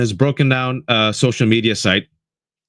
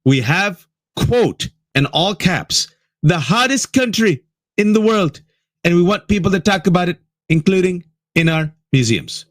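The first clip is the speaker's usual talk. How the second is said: higher, hammed-up Trump read; mock the post as the president would say it; 5 semitones higher than usual. Reading the president's post in a mocking Trump voice. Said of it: "I have to do it in his voice".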